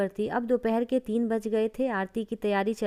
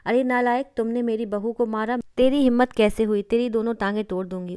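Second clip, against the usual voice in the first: loud, furious mother tearing into her son; angry scolding; 3 dB louder than usual. Acted. Mother-in-law scolds her son for hitting his wife, loud and furious. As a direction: blast him for hitting her daughter-in-law, faster at the end.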